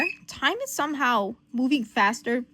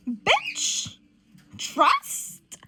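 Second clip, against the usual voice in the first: mock incredulity; 11 semitones higher than usual. Retold scorn at talk of trust.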